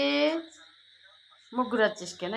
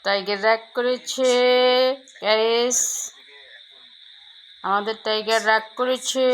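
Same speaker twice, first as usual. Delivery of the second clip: louder, eager report to viewers; excited announcement; 6 dB louder than usual. Real, not acted. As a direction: tell the guys the news with energy. (জোরে উত্তেজিত ঘোষণা)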